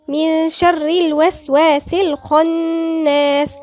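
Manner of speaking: slow, loud Quranic recitation; recitation with heavy kha. Shown as a demonstration. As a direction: hum the ن of من, make the خ in الخناس full and heavy. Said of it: "خا مفخمة".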